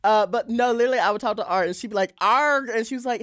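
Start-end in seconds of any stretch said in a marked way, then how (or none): 2.2-2.7 pirate-like mock accent; exaggerated, higher accent impression; Art Simone. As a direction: imitate the accent as a pirate's "arr". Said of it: "it sounded like a pirate talking".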